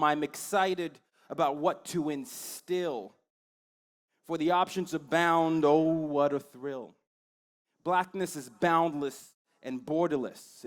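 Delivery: slow, measured poetry recital; spoken-word poem. Acted. Poet performing a piece called Black to students, spoken-word delivery. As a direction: deliver it as slam poetry, lingering on line ends.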